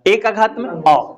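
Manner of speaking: slow demo. Shown as a demonstration. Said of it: "अ का उच्चारण हम कर पाएंगे या नहीं?".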